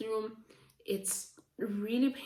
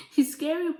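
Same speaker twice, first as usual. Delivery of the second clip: higher and louder, punching scary; loud emphatic; 7 semitones higher, 7 dB louder than usual. Real, not acted. To the viewers about Ronan, a loud exclaim. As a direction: blurt out scary with force. Repeats scary aloud after whisper.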